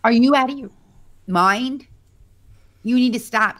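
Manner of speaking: high, loud mock yell at the brother; retold yell. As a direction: shout it up high, scolding him. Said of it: "And I'm like".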